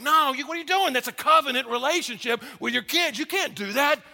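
mock outrage from onlookers; shocked protest. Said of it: "everybody was like".

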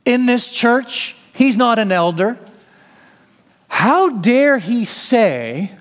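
imagined listener bristling, who does he think he is; indignant church member. Retold or imitated. Preacher voices an imagined offended churchgoer, incredulous. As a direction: voice the offended Roman reader, slowed and incredulous. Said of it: "might start thinking to yourself".

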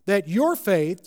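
"your" drawn out slowly and pressed; slow down and weight "your"; stress on your. Shown as a demonstration. Preacher showing Peter alone is meant, stress on "your".

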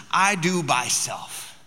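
lightly voiced toddler, words drawn out slowly; slow, insistent little-kid quote; imitating toddler. Dad quoting his two-year-old's favorite words, lightly imitating toddler. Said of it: "her favorite words have been the words".

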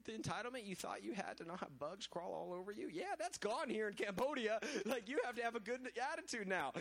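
mock-stern team leader laying down the rules; imitating Tom. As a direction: scold like a bossy teammate, half in jest. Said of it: "Tom saying".

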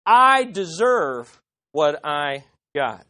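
smug mocking voice. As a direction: voice a self-satisfied fool. Smug voice down in pit.

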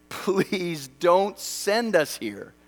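slow, pleading prayer voice; a pastor retelling his hotel-room prayer, slow and pleading; retold plea. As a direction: plead it slowly, half joking. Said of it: "That was my honest prayer".

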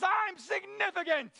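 high, drawn-out cry flung at the sky; screaming Calvin. Acted. Preacher acting Calvin yelling at the universe, high drawn-out cry. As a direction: shout it up to the stars, pitch soaring. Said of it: "he screams out of the universe".

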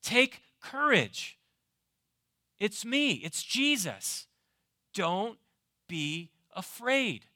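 slow, gentle words of Jesus; a light voicing of Jesus, calm and slow; Jesus speaking. Preacher voicing Jesus to the fearful, slow and gentle. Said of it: "has the authority ... and say".

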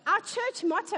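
laughing through the words; breaking into giggles mid-sentence. Real, not acted. Preacher laughing at himself.

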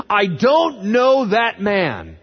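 very slow, loud, emphatic denial; sworn denial. Acted. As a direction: hammer out each word, high and loud. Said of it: "denied it again with an oath".

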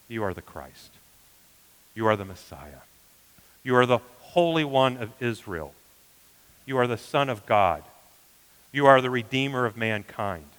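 hushed opening, growing firmer with each title; solemn confession. Acted. Reverently acts out Peter's confession.

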